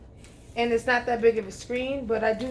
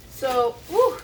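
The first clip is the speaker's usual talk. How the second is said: winded after lifting; panting from the heavy tower; out of breath; 4 dB louder than usual. Real, not acted. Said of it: "you can tell I'm out of breath".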